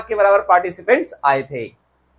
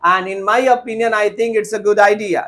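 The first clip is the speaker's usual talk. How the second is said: slow faulty sentence; slow wrong example; much slower than usual. Shown as a demonstration. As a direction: read the redundant line slowly. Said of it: "No sir".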